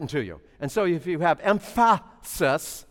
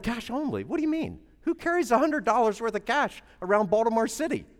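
mock disbelief, higher and softer; incredulous; 3 semitones higher, 5 dB quieter than usual. Preacher retelling his shock at the clerk, incredulous. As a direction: echo it back in disbelief.

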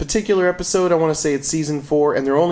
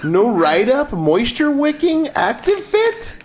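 drawn-out product pitch, rising higher at the end; mock ad read; 4 semitones higher, slower than usual. Podcaster pitching Costco underwear to listeners, mock ad read. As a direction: hype the features like an advert, slowly.

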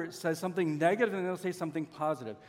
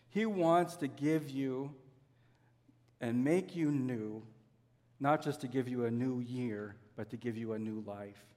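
tender assurance; 4 semitones lower than usual. Real, not acted. Tender close of the point.

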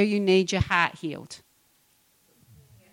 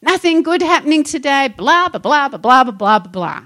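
mock moaning; 6 semitones higher, 8 dB louder than usual. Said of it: "and it's like".

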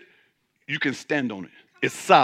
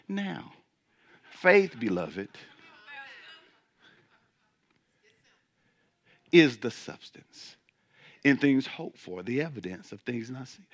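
monotone voice; 6 semitones lower, 7 dB quieter than usual. Acted. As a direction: drone it out in a monotone. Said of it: "like I'm talking in this monotone voice".

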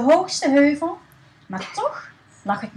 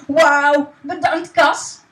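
excited shout; 7 dB louder, slower than usual. Acted. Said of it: "riep Stan".

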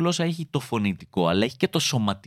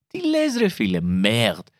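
excited; 3 semitones lower, slower than usual. Acted. Admiring the French word.

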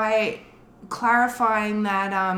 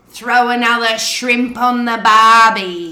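slow, loud hammed-up Australian accent; broad mock Australian accent, slow and loud; mock Aussie cliché; 10 dB louder than usual. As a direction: drawl it like a tourist Aussie cliché, much louder. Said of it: "I just wanna clarify then more than".

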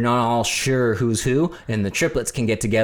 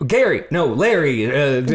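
higher, mock-confused host call; flustered Jeff; 3 semitones higher, 3 dB louder than usual. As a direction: mix up the names like a flustered host. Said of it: "and Jeff was like".

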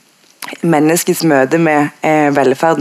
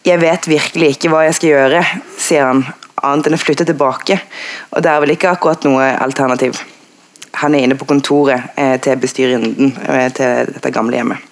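understated, even book reading; reading aloud. A narrator's reading. Panel guest citing a passage that moved her, read aloud.

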